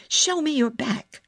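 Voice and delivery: high-pitched, brisk command; fierce. A narrator's reading. Girl demands to inspect boy's back, fierce. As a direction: demand it, no nonsense. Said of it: "Mary said fiercely".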